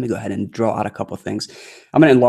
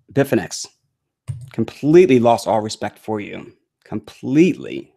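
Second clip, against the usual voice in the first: irritated. Real, not acted. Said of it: "that just kinda irritated me".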